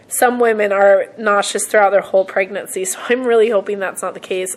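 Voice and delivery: croaky voice from a cold; hoarse, getting over a cold. Real, not acted. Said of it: "I sound like a witch".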